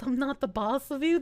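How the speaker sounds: usual speaking voice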